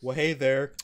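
low, repeating game character line; deadpan looping voice line; glitched game voice. Retold or imitated. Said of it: "Anthony, you were going".

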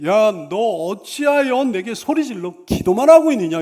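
loud, exasperated rebuke; scolding. Acted. God rebukes Moses for only praying, loud scolding. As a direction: scold hard in God's voice, leaning into the question. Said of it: "이렇게 꾸짖는 말씀이에요".

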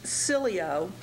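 cilio said as SILL-ee-oh; pronunciation demo. Shown as a demonstration. Teacher dictating the first word part to students, clearly pronounced cilio. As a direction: say cilio in three parts, SILL-ee-oh. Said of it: "The first one is pronounced".

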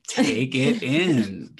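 imitating herself. Host retelling how she urges the author to take praise in, slow and firm. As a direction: spell it out slowly to make her absorb it. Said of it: "I'm like".

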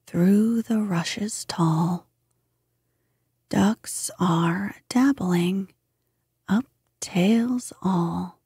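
slow, measured verse with long pauses; poem recitation. A narrator's reading. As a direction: recite it line by line, lingering on the words. Recites the ducks' song as verse.

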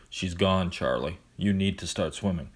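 calm, lifeless delivery; monotone voice. Acted. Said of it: "his usual monotone voice".

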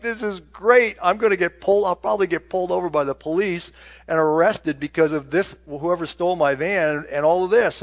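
venting anger at being set up; fuming. Retold or imitated. Preacher retelling his fuming rant in the van. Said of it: "And I'm just fuming".

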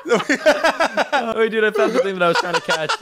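bubbling over with laughter as he spots it; laughing. Real, not acted. Laughing while finding target.

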